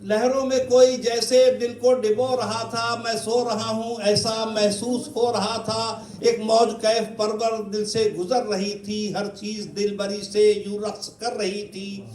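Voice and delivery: measured, lilting verse recitation; poetry recital. Acted. Poet reciting a train journey to admirers, lilting recitation. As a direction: declaim each couplet with ringing line openings.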